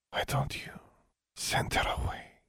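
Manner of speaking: slow, voiceless conspiratorial whisper. A narrator's reading. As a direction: whisper it close to his ear. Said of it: "Behui whispered, leaning closer".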